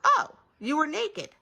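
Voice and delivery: high, loud, stretched reply; mother's answer. A narrator's reading. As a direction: answer in a lilting, drawn-out voice. Mother answers the child's question.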